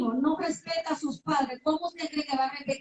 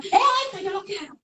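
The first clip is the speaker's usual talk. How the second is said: put-on whiny child; 4 semitones higher than usual. Child demanding in store.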